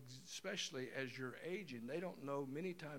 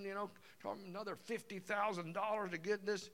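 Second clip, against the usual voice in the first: a hint of mock rant, building louder; psycho husband; 4 semitones higher, 3 dB louder than usual. Husband ranting about the kitchen, building mock anger. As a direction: work yourself up in a half-hearted rage. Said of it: "He starts going psycho".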